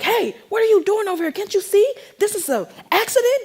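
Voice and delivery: high-pitched mock yell; retold yelling. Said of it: "they're yelling at me like".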